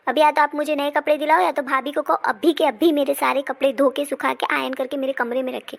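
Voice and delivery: angry demand. Acted. Daughter demands clothes from mother.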